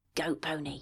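whispering in a put-on character voice. Voicing a character who blows on a gem: whispering in character. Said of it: "and whispers".

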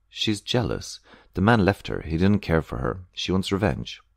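ordinary delivery

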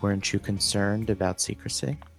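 said very quietly, hushed. Player in character, asking a companion near the hearthstone: said very quietly. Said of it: "And I say it very quietly".

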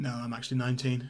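really quiet, soft, hushed, under the breath. Retelling a film scene where a girl corrects her age: imitating a really quiet line. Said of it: "And then really quietly".

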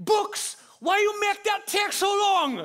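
put-on shrill, booming, intense Jamaican accent, very high, very loud. Retelling what a man behind the speaker said, in an intense Jamaican accent. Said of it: "the voice of an intense Jamaican man".

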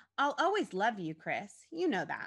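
plain

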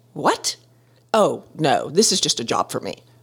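composed, calm, all-business executive tone. Retelling a woman's reply to the speaker, imitating a business-like CEO voice. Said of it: "in the most business-like CEO voice".

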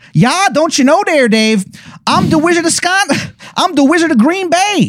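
put-on worst-ever Wisconsin accent, very high pitched. Play the cheese wizard opening his mouth to speak, Wizard of Green Bay in the worst Wisconsin accent. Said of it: "the worst Wisconsin accent that you have ever heard".

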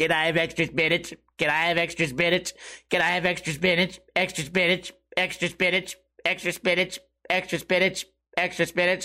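put-on weird, droning, robotic teenage voice. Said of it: "a weird robotic voice like this".

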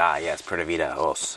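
mock, acted sarcastic tone. Retelling how a guy on the sailboat said cheers: imitating a sarcastic toast. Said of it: "he's sarcastic, but he'd be like".

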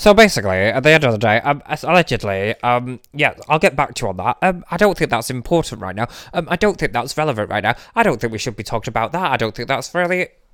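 put-on evasive, hedging lawyer voice with hesitant ums. Joking about what makes a good lawyer, doing an impression of a good lawyer. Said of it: "this is an impression of a good lawyer".

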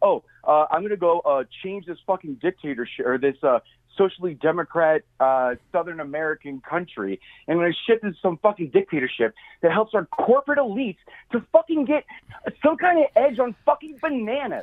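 ordinary talk

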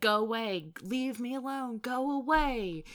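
loud, high-pitched yell. Analyzing a scene where Dean confronts a specter, imitating Dean yelling. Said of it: "Dean yelling at this specter and he's saying".

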